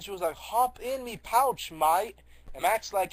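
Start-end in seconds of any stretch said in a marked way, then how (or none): 0.4-2.2 raised, slow, loud put-on character voice. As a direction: call it out high and slow, playing the character. Retelling, voices a character's invitation.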